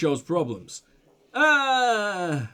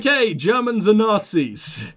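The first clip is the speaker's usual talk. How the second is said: mocking; 2 semitones higher, 5 dB louder, slower than usual. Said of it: "Is now being like".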